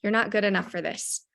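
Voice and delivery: a hint of a sneering demon telling him he doesn't belong; mild mock demon voice. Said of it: "he would have the little demon voice".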